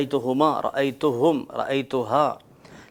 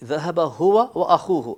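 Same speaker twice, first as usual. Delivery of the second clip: هو lifted higher for emphasis; stress on هو; 4 semitones higher, 4 dB louder, much slower than usual. Shown as a demonstration. Teacher showing students an emphatic pronoun, stressing هو. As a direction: put extra stress on the pronoun هو. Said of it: "ഒന്നും കൂടെ stress ചെയ്ത്".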